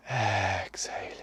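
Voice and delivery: slow whisper on the breath out. Acted. Breath cue during meditation.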